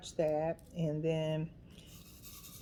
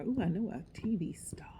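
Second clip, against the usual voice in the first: hushed playful tease; teasing her friend about TV fame; teasing whisper; 4 semitones higher than usual. Retold or imitated. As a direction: whisper it like gossip. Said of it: "told her".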